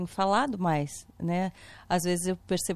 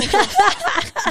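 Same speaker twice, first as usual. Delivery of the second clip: arrastado; 10 semitones higher, 7 dB louder, much slower than usual. Real, not acted. Constrangida e rindo.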